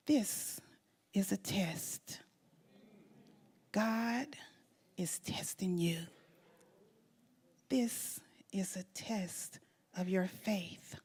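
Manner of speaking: hushed, slow, breathy delivery with weighty pauses; solemn child's message. Retold or imitated. Daughter telling her crying mother God is testing her, solemn and hushed. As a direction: let each phrase land softly and slowly.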